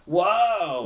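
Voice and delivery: high, loud goblin whoa of wonder; a goblin gawping at strangers' boots; amazed goblin. Acted.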